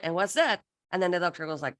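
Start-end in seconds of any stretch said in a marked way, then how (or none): 0.0-0.6 mock puzzled echo. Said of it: "And then I go like".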